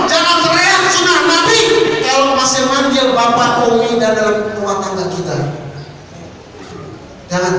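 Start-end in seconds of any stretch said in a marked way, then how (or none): 0.1-1.6 shouted rebuke. Acted. Preacher rebukes loud preachers.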